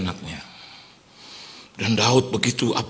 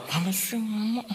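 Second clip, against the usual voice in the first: soft, higher put-on voice; mock annoyed spouse; 7 semitones higher, 8 dB quieter than usual. Husband replying to his wife, mock annoyed. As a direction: play a softly peeved spouse.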